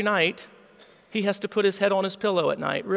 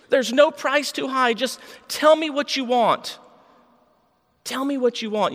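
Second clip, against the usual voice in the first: desperate pleading; 5 semitones higher than usual. Acted. Boy begs Jesus, desperate.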